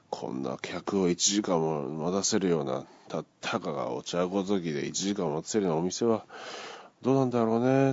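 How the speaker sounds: 店中に聞こえるよう声を張り上げ、最後は高く強く; 周りの客に聞かせるつもりでゆっくり大声の嫌味; loud complaint. Retold or imitated. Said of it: "大きな声で叫んで". (店員を待つ客が店内に向けて大声で嫌味を叫ぶ)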